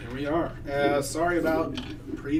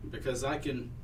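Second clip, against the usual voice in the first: a creeping vine savoring its prey; slow hissing strangling vine; 2 semitones lower, 3 dB quieter than usual. Acted. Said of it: "You hear the plant say to you".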